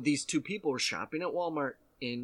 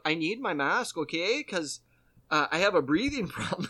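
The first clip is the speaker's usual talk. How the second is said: Canadian-ish whine; 4 semitones higher, 4 dB louder than usual. Retold or imitated. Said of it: "why it's so Canadian".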